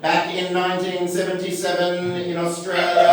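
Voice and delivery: steady, level storyteller voice; better presenting voice. Shown as a demonstration. Comedian restarting a story about an old band, steady put-on voice. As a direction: intone it evenly, like a documentary intro. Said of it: "I'll try and do a better voice".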